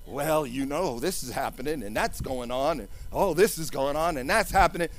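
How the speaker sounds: mock gossip, hushed. Preacher mimics distracting talkers, hushed gossip. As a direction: mumble the chatter like busybodies. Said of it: "fifty people will show up to talk to you".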